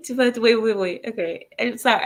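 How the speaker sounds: breaking into giggles; can't hold back laughter; laughing. Real, not acted. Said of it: "I can't even say this without laughing".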